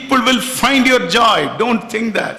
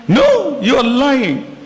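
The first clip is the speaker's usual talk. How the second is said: high, loud no; playful mock accusation; boss insisting; 5 semitones higher, 3 dB louder, slower than usual.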